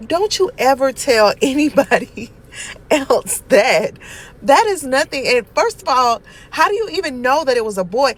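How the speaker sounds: loud, laughing through a scolding. Real, not acted. Aunt to nephew over the dead-brother lie, laughing and loud. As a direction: scold him but can't stop laughing.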